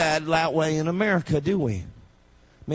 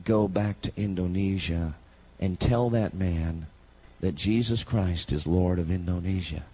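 voice of the Lord; 9 semitones lower, 3 dB quieter than usual. Retold or imitated. Voice of the Lord heard.

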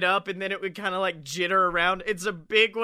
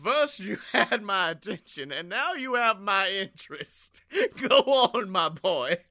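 Leo DiCaprio in Django Unchained. Retold or imitated. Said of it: "I'm full on Leo DiCaprio and Django Unchained".

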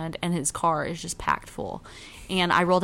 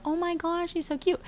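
high gushing voice, a bit softer; imitating the neighbor; 11 semitones higher, 5 dB quieter than usual. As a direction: gush over the dog. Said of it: "he would always be like".

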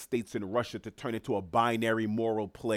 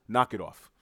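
dismissive; 3 dB louder than usual. Real, not acted. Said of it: "I'm sorry to be so dismissive".

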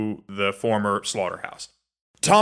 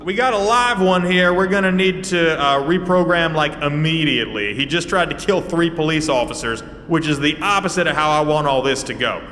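Tommy calling out; 3 semitones higher than usual. Acted. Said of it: "he goes".

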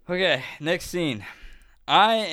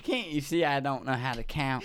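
put-on Southern drunk accent. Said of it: "stuck in the Southern accent".

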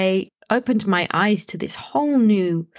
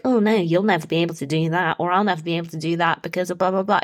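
quick, nagging self-doubting chatter; annoying inner voice; 2 semitones lower, much faster than usual. Acted. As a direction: rattle it off like a nagging inner critic. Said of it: "It's like that annoying voice".

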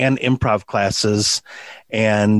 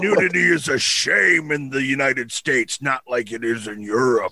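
put-on Tesla accent; 3 semitones higher than usual. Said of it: "my spot-on Nikolai Tesla accent".

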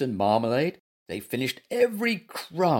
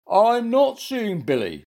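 high, loud, cross retort; snappish; 9 semitones higher, 5 dB louder than usual. A narrator's reading. Bear told off by the animals, snappish high retort. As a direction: snap back in a high bear voice. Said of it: "snapped Goompa".

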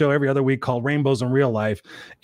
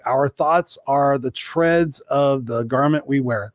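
slow reading; much slower than usual. Real, not acted. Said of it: "trying to read that and talk at the same time".

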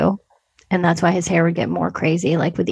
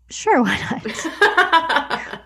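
laughing retold quote. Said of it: "And she's like".

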